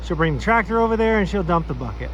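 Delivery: winded and out of breath from hauling logs; talking out of breath between breaths. Real, not acted. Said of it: "Sorry if I sound like I'm out of breath, but I am".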